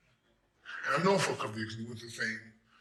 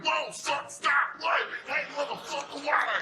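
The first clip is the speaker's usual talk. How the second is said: high, loud frightened yelps; panicked shouting; 5 dB louder, slower than usual. Retold or imitated. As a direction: scream in a panic at the gun. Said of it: "I was like".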